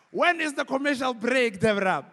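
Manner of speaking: high, loud evasive question; mock politician dodging. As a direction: dodge the interviewer cheekily. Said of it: "It's always like".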